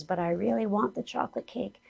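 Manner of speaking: a hint of a sulky kid wanting cake; younger inner voice. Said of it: "younger voice that says".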